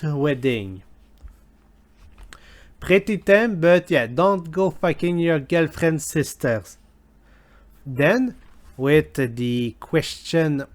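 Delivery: intern put on in a hammed-up Scottish accent; badly faked Scottish brogue; fake Scottish accent. Intern reading disgusting questions to listeners, fake Scottish accent. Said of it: "fake Scottish accent".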